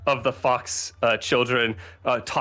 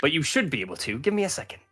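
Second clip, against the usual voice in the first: put-on lingering NPC accent; 7 semitones higher than usual. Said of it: "I'm still in this, this accent".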